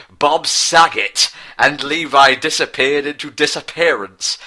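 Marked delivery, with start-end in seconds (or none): 0.1-1.3 higher, louder, drawn-out scream. Acted. Scared boy screaming in the dark, high and loud. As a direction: yell it out in terror, slowly. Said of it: "Bozy screamed".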